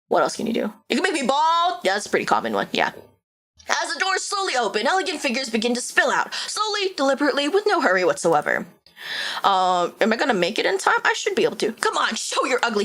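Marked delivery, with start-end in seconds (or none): 3.7-8.6 measured storyteller read of the scene; unhurried narrator, letting it unfold; story narration. A narrator's reading. Streamer narrating the vampire game's opening scene, storyteller voice. Reads game narration aloud.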